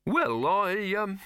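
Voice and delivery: high, hesitant nervous voice; hesitant Silverfish. Acted. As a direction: fumble for words nervously.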